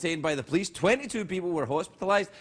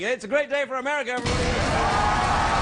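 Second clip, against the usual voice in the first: mock announcer; 4 semitones higher than usual.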